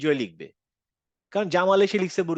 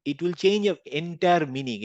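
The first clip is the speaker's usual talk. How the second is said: emphatic; much slower than usual. Real, not acted. Teacher emphasising slowly.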